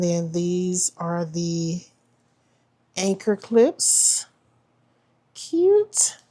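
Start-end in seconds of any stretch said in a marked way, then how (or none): 5.3-6.2 excited squeal. Real, not acted. Delighted reaction to anchor clips.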